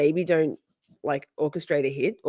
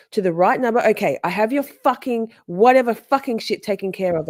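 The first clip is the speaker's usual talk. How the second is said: pitched-up, louder mock rant; hammed-up angry caller, higher; mocking Katie; 5 semitones higher, 4 dB louder than usual. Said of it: "She says".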